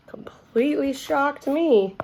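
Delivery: hushed whisper. Real, not acted. Reader whispering an aside to the children. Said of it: "reader aside to listeners".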